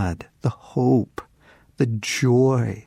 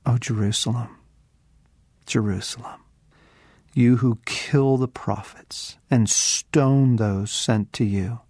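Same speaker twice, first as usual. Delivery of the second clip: lament. Acted. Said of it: "He says this".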